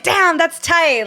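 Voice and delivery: slow, drawn-out impressed remark. Retold or imitated. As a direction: savor it like you're genuinely impressed. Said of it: "And I was like".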